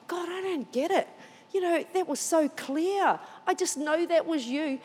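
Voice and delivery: high, mild plaintive complaint; acted puzzled disappointment; dismayed pleading. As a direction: plead with God in bewilderment. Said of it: "the dismay".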